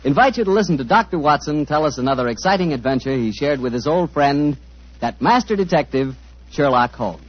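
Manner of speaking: put-on smooth old-time radio announcer read. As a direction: sell it like a forties sponsor spot. Announcer reads sponsor copy.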